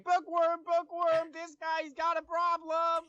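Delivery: hollering to get someone to come over; urgent calling out. Acted. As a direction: raise the voice high and loud, shouting for help across the room. Player character calling out for help.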